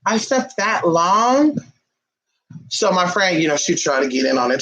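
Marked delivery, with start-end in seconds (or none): 0.1-1.6 drawn-out disbelief. Retold or imitated. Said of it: "I was like".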